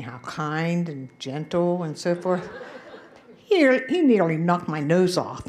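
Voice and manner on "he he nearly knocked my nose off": loud and laughing through it; laughing as she tells it. Real, not acted. Teasing story, laughing.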